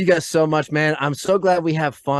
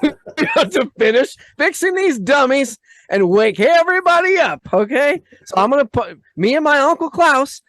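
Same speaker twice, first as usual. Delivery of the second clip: mock villain pitch; 5 semitones higher, 4 dB louder than usual. Parody of globalist villain pitch.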